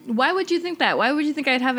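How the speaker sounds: incredulous; indignant disbelief. Real, not acted. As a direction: challenge the assumption. Indignant question.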